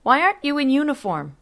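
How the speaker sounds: angry mother confronting the messenger on the stairs; voice going up. A narrator's reading. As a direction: fling it at his retreating back. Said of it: "Her voice went up".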